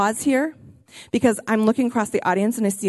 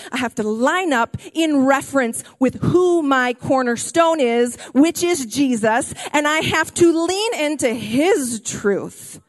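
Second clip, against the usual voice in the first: excited preaching; 4 semitones higher than usual. Real, not acted. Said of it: "I'm not yelling at you 'cause I'm mad. I just get a little excited".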